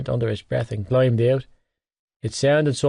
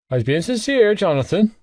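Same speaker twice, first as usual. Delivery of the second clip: wounded; 8 semitones higher than usual. Acted. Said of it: "he shot back, wounded".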